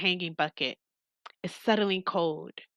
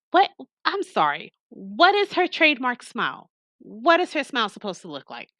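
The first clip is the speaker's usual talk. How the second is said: incredulous; 5 semitones higher, 5 dB louder than usual. Real, not acted. Player reacting, incredulous at the text.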